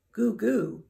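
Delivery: put-on baby brother's noisy gurgle; shouting baby. A narrator's reading. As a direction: coo loudly like a baby. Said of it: "his baby brother shouted".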